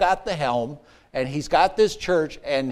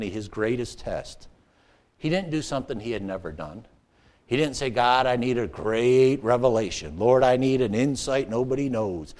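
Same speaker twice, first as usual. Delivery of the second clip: much softer, lower, earnest teaching; quiet preaching; 7 semitones lower, 6 dB quieter than usual. Acted. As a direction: drop down low and intimate.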